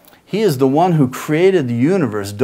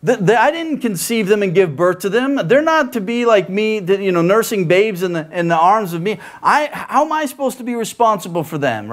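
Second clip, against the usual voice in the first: pleading Moses, pitched higher; overwhelmed Moses, higher; Moses complaining; 5 semitones higher than usual. Retold or imitated. Moses complaining to God, higher and pleading. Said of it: "And he asks".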